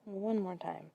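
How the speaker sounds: soft, spaced-out yoga count; guided breathing count. Acted. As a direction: count the breaths quietly, leaving room for each. Leads a slow breathing count.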